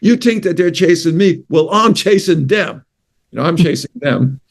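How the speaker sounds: put-on teasing New York accent. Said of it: "I use my New York accent".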